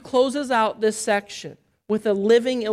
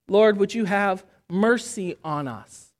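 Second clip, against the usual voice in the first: humble plea; 3 semitones lower than usual. Shown as a demonstration. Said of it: "You see the difference?".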